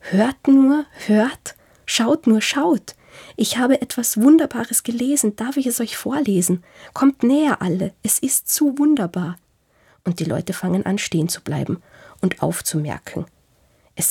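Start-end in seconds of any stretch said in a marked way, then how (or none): 0.0-9.4 joyful shout. A narrator's reading. Reader calls to people on the street in a joyful shout. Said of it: "aus dem Fenster und schreit".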